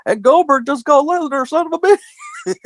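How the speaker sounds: high mock J R call; imitating J R. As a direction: call it like J R, hammed-up. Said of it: "J R has the line of the night".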